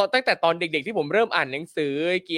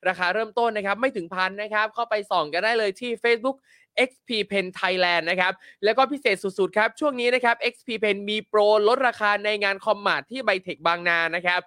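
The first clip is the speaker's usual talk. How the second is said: ad read; 3 semitones higher than usual. Acted. Reads sponsor ads.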